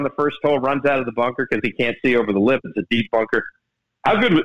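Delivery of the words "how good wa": Tom Watson voice. Retold or imitated. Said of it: "giving your impersonation".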